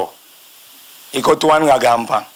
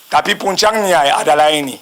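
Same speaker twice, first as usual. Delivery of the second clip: ordinary talk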